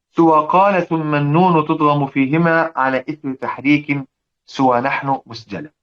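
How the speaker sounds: slow, measured chanting of verse; poem recitation. Acted. Teacher reciting the verse rules to his students slowly.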